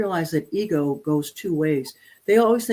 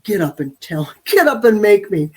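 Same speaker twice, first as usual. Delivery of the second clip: cheeky dog; 6 dB louder than usual. Retold or imitated. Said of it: "he looked at me like".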